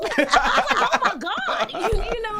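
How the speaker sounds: laughing loudly through the words. Real, not acted. Laughing hard while retelling the awards show. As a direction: crack up while telling it.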